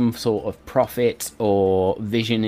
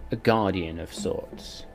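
ordinary delivery

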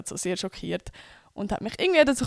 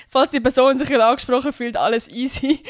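playful call-out; 3 semitones higher, 6 dB louder than usual. Real, not acted. Joking reassurance to the friend.

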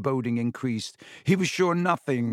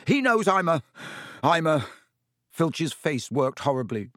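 higher and louder, fury breaking into shame; raging Filch; 6 semitones higher, 3 dB louder than usual. A narrator's reading. Caretaker raging at the boy, voice cracking. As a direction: choke out the confession.

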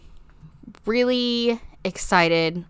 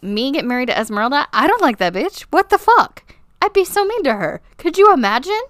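high-pitched, incredulous acted protest; hammed-up outraged scoffing; mock indignant disbelief; 7 semitones higher, 4 dB louder than usual. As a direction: act appalled at the very idea, getting higher and louder. Acting Philip's indignant denial.

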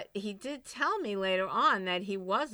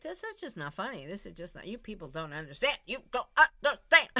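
mock distraught protest; faster than usual. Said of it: "I was like".

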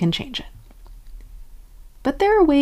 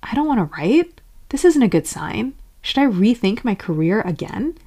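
overly concerned; 2 semitones higher than usual. Acted. Doubting your writing career, mock overconcern. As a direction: fret in rising, worried phrases. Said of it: "getting overly concerned would be".

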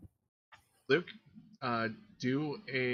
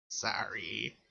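whisper. Acted. Goblin with hands around Norik, whispered apology. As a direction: whisper it gently to one person. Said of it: "just whispers".

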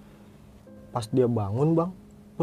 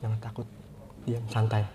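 calm reassurance; 2 semitones lower, 6 dB quieter than usual. Retold or imitated. Older brother telling sibling the friend is fine, calmly. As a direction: quietly talk someone down from fear.

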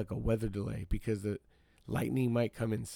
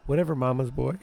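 dismissive sneer in another voice; mocking woman; 2 semitones higher, 4 dB louder than usual. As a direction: brush him off with scorn.

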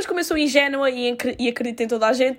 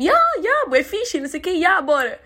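fake enthusiasm; 6 semitones higher than usual. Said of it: "E eu, eu que tipo".

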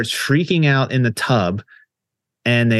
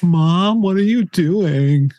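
put-on higher, pleading young daughter's voice; a scared daughter calling out to her mother; daughter's alarmed cry; 6 semitones higher, slower than usual. Girl in the film calling to her possessed mom, higher and alarmed.

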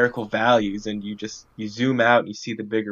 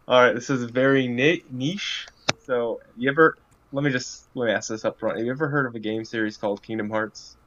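promo voice. Acted. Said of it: "get on my, my promo voice".

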